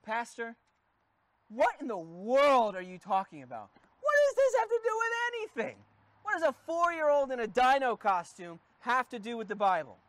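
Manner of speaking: mock baffled churchgoer, high squeak on the middle question; a hint of an incredulous congregant; puzzled listener. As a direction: play the confused listener, lightly. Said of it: "you might be sitting there going".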